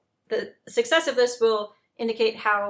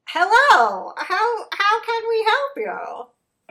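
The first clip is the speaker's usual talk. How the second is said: high, loud, hammed-up French accent on a giant ant; a smiling alien ant's put-on French accent; 11 semitones higher, 6 dB louder than usual. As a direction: ham up a bad French accent, sweet and high. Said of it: "That French accent was good".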